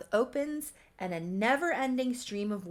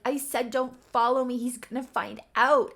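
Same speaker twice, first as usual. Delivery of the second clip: higher, louder mock alarm; acted frantic warning; 5 semitones higher, 6 dB louder than usual. Charlotte warning Leif off as she flees, frantic. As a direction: warn off a pursuer, frantic. Fleeing woman warns pursuer.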